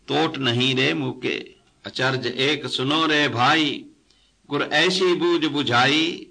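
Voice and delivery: measured, projected verse recitation; scripture recitation. Acted. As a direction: recite the hymn line by line, drawing out the phrases. Recites a quoted scripture hymn.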